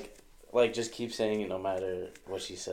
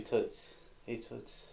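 greaser tough guy; 8 dB quieter, much slower than usual. Shown as a demonstration. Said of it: "you don't understand".

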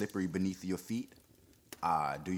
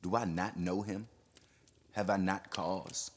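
agitated denouncing. Acted. Perronet denouncing his old enemy, fierce and excited.

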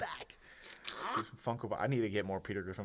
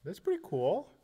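mock gushing; 4 dB louder than usual. Gushing in put-on squeaky voices.

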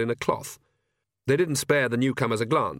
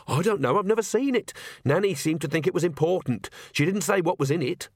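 higher, hurried denial; lightly voiced flustered explanation; insistent young witch; 6 semitones higher than usual. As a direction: disclaim knowledge while hinting it matters.

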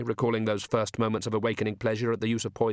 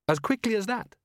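astonished; 10 semitones higher than usual. A narrator's reading. Downey astonished at quick plan.

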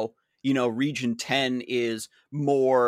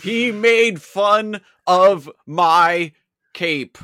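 whiny character voice; 6 semitones higher, 8 dB louder, much slower than usual. Retold or imitated. Mock character complaint.

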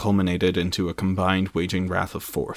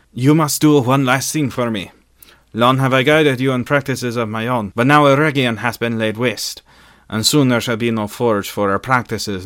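urgent, raised plea in character; pleading; 3 semitones higher, 5 dB louder than usual. A narrator's reading. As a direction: plead with them to carry out a last task. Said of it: "to her he pleaded".

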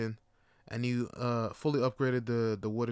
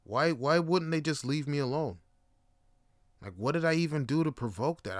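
upset muttering; 2 semitones higher than usual. Retold or imitated. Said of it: "I'm, like, crying".

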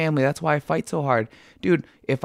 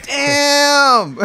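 laughing exclamation; 13 semitones higher, 6 dB louder than usual. Real, not acted. Guest learns they were live.

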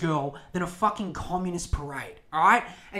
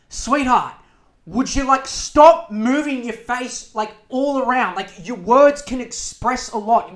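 louder and higher, slow and condescending; mock scolding; 5 semitones higher, 9 dB louder, slower than usual. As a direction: talk down to her like a fussy aunt, stretching it out. Scolding the host's facial expressions.

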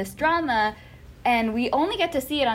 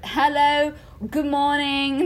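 announcer greeting; 4 semitones higher, slower than usual. Retold or imitated. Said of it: "he's just there to be like".

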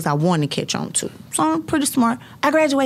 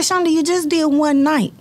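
higher, louder, incredulous mom; mock her mother's disbelief; lightly voiced surprised mother; imitating mom; 8 semitones higher, 3 dB louder than usual. Mom's reply, retold.

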